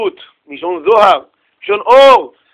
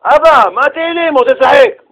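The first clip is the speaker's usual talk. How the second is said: put-on protesting child; 6 semitones higher than usual. Son tells father he wants to play, protesting. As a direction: plead like a reluctant kid.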